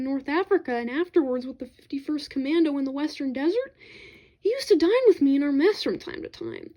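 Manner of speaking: put-on pressing an old comrade to remember, hastily; hastily adding. Narrator urging Lawrence to remember Celliers, eager and hasty. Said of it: "I hastened to add".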